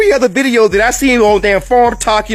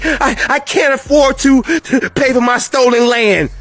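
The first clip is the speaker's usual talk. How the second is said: mock whining farmer. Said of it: "land crying".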